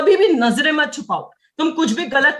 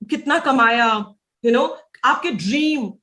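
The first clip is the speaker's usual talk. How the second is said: slow weight on कितना कमाया and ड्रीम; stress on key words. Shown as a demonstration. Trainer points reps to words to focus on, slow emphasis on ड्रीम. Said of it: "ड्रीम पे focus करना है".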